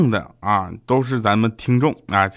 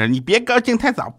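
much higher, cheeky taunt; high teasing voice; 12 semitones higher than usual. Retold or imitated. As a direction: squeak out the jab playfully. Retold taunt punchline.

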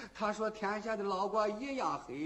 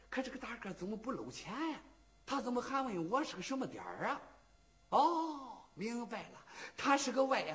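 muttered inner thought; 4 semitones higher, 5 dB quieter than usual. Acted. Old man's private puzzled thought.

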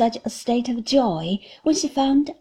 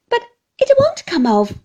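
much higher, louder, fretful wail; young wife distressed over the oysters; distressed Dora; 14 semitones higher, 8 dB louder than usual. A narrator's reading. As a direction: plead helplessly with the shell. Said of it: "looking very much distressed".

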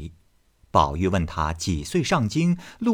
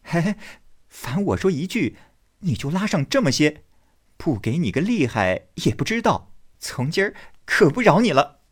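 Baoyu laughing; 8 semitones higher than usual. Acted. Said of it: "宝玉笑道".

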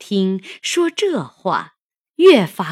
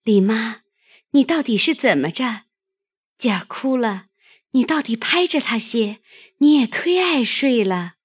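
higher, brisk call across to the next room; 5 semitones higher, 4 dB louder, faster than usual. A narrator's reading. Maid calls to the nanny about the crying child, calling out. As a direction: call over to rouse a dozing nanny. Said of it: "平儿连向那边叫道".

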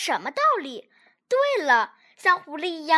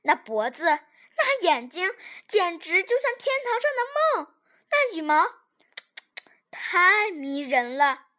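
thin soft voice. Acted. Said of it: "细声细气地说".

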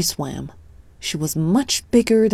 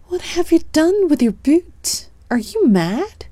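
high, sharp telling-off; scolding sister; 10 semitones higher than usual. Acted. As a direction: scold him like a shocked big sister. Sister finds Tom bootless.

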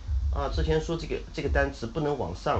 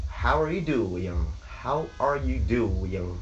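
put-on slow, sing-song northern Chinese accent in English; much slower than usual. Teacher imitates northern students' greeting, slow northern Chinese accent. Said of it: "北方的学生呢".

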